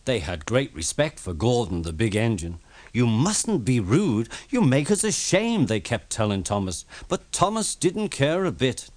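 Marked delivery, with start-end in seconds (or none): 2.9-5.7 scolding coaches. Acted.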